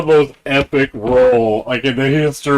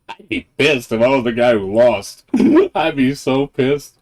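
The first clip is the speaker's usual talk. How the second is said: chuckling through the words; laughing; 2 semitones higher than usual. Real, not acted. Laughing at the unlucky loser's rage. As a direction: laugh while picturing the loser's anger.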